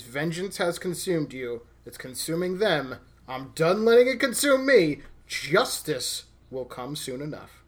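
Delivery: Black Panther's vow, lightly dramatized; solemn movie-quote delivery, rising then settling; dramatic quote reading. Acted. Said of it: "that reading was so good".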